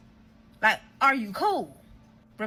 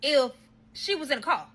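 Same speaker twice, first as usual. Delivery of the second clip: heated confrontation; 5 semitones higher than usual. Retold or imitated. Girlfriend questioning partner about her car, heated. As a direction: fire the question at him, raised voice.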